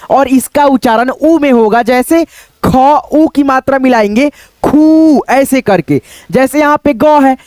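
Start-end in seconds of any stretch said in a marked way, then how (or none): 4.6-5.2 "खू" with a lengthened ऊ; drawn-out long vowel. Shown as a demonstration. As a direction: stretch the vowel at the end of "खू". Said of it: "थोड़ा सा खींचना होता है".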